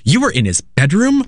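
imitating a shocked mother, lightly hammed; shocked mom. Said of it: "very shocked".

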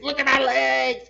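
loud, high, stretched-out complaint; mock outraged yell. Imitating officer complaining to Forrest about his legs, mock outrage. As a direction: bellow it slowly, imitating a bitter man.

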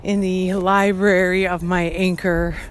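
loud, projected podcast voice; alarmed and loud, pushing the volume. Real, not acted. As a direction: talk over a passerby's speakerphone. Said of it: "very loudly".

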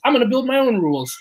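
hushed, conspiratorial whisper; defiant whisper. Retold or imitated. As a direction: whisper it like a secret plan. Defiant at the blackjack table.

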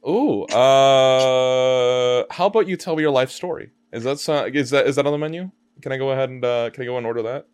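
playful customer voice. Pretend. Playing customer at counter.

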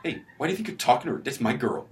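badly faked tough guy; tough guy accent. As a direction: play a hammy tough guy confronting a rival. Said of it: "that was my tough guy accent".

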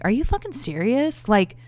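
a touch of incredulous anger, loud on "for real"; mock outraged date. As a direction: imitate his disbelief, half-hearted. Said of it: "fighting me the whole way home".

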